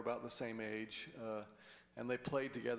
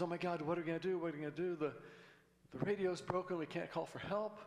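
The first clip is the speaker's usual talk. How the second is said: higher, frantic worried voice; panicky nervous guy; 5 semitones higher, faster than usual. Acted. Nervous guy panicking about being stranded. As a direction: play the nervous guy losing it.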